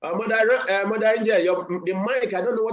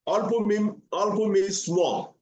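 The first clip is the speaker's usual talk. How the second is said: slow teaching; 3 semitones higher, slower than usual. Shown as a demonstration. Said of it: "slow teaching repetition".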